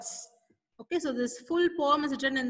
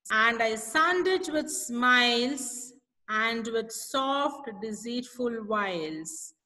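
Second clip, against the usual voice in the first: slow, measured poem reading; poem recitation; slower than usual. Acted. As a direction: read each line slowly and deliberately, like reciting to a class. Recites second stanza slowly.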